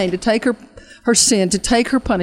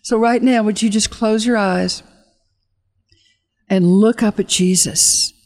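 guided altar call; slower than usual. Acted. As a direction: draw them gently toward Jesus. Leads the audience in prayer.

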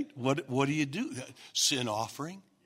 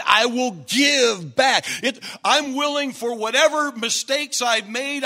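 Zacchaeus vowing again, louder; 5 semitones higher, 3 dB louder than usual. Acted. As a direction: declare it with resolve. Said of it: "then he says it again".

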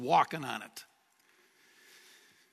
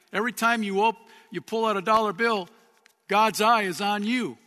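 louder, higher, building to the punchline; raised preaching voice; emphatic preaching; 4 semitones higher, 4 dB louder than usual. Real, not acted. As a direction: drive it home to the congregation.

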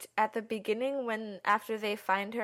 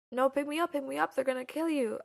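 higher-pitched, lightly acted pleading; mild retold panic; 4 semitones higher than usual. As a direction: imitate someone freaking out, understated. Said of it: "Dwan is freaking out, and she's like".

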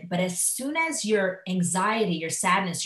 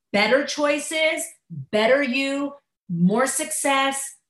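upbeat; 6 semitones higher, slower than usual. Acted. Upbeat list of rewards.

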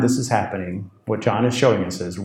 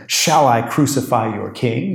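sarcastic. Acted. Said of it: "You can hear the sarcasm".

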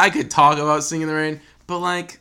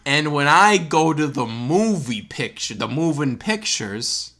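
put-on old-timey New Yorker. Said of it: "I gotta get into character".

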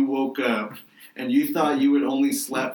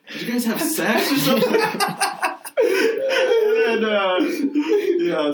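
laughing; 10 semitones higher, slower than usual. Real, not acted. Laughing at friends in robes.

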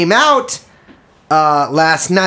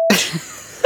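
coughing over the word; 8 dB quieter than usual. Pretend. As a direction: cough through it. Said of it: "I'm gonna cough over you".

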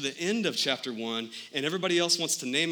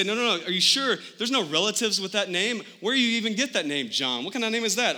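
incredulous relatives; 4 semitones higher than usual. Retold or imitated. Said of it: "they come again and they say".

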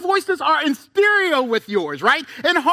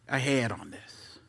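whisper; 12 dB quieter than usual. Retold or imitated. Voiced aside in Lot's mind.

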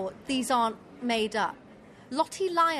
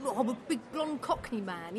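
put-on Cockney accent. Podcaster showing off an impression of a contestant, Cockney accent. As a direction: play it as a big Cockney man. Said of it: "That was very good".

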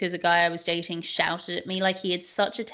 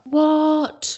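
shocked what; 8 semitones higher, 6 dB louder than usual. Real, not acted. Shocked reaction to serial-killer spouse.

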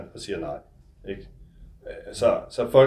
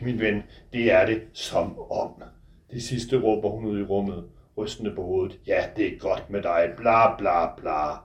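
measured literary reading, close and intimate; novel reading. A narrator's reading. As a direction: author reading his own book aloud. Author reads his novel aloud.

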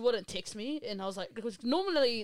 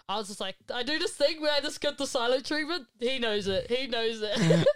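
laughing; 4 dB louder than usual. Real, not acted. Laughing admits the silent treatment.

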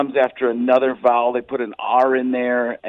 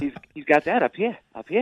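Mark Wahlberg; 3 semitones higher than usual. Shown as a demonstration. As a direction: pitch lifting into a light, rising voice. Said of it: "Mark Wahlberg".

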